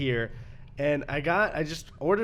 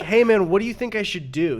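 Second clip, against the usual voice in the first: imitating delivery guy; 6 semitones higher, 7 dB louder than usual. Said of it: "attitude was kind of like".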